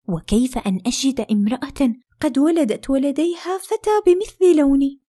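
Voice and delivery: anxious question, rising high and loud at the end; frightened. A narrator's reading. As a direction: ask in rising fear. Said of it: "وهي خائفة". (بخوف وقلق)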